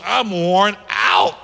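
slow, drawn-out shout; worn-out cry. Acted. Sarah tells the prophet she is too tired for kids, slow shout. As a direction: let it out like exhaustion itself. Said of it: "She goes".

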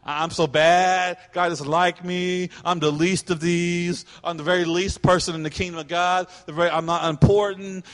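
mild mock pity-party whine; put-on woe-is-me complaint; self-pitying. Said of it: "like to have those pity parties".

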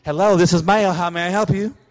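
lightly put-on grown-up phone greeting; mock-polite phone answer, rising at the end; kid imitating mom. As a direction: imitate a child posing as their mother on the phone. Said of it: "tries to act like their mom".

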